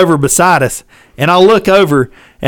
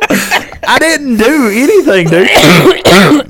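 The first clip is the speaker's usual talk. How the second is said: laughing; 8 semitones higher, 3 dB louder, much slower than usual. Retold or imitated. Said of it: "retold reply".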